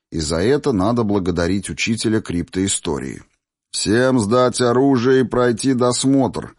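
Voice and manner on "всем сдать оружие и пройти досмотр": slow, higher voice over a loudspeaker; through a megaphone. Acted. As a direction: call out orders through a megaphone. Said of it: "усиленный мегафоном".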